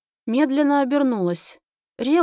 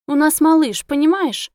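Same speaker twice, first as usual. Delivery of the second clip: excited; 5 semitones higher, 6 dB louder than usual. A narrator's reading. Heroine urgently explains pregnancy.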